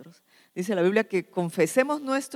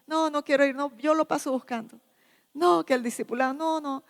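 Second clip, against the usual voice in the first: reluctant refusal; 6 semitones higher than usual. Acted. Acted reluctant brother refusing encouragement.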